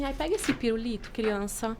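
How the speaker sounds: lightly voiced mum offering a lollipop, quiet and coaxing; mother soothing child. Mãe voiced soothing crying child.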